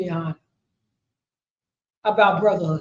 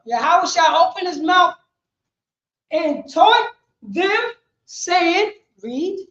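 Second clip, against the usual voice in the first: loud preaching; 5 semitones higher, 4 dB louder than usual. Real, not acted. Preacher repeating verse forcefully.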